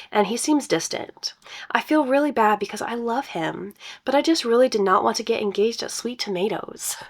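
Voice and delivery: reading a post aloud; story narration. Acted. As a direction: brighter storytelling read.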